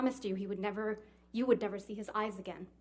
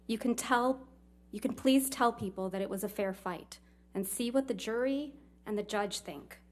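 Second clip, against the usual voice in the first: read-out quote; 4 dB louder than usual. Retold or imitated. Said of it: "quote, end quote".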